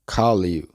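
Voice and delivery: "Call you" run together as one word; words joined. Shown as a demonstration. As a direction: join "Call" straight onto "you". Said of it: "se unen y se pronuncian". ("Call you" como una sola palabra)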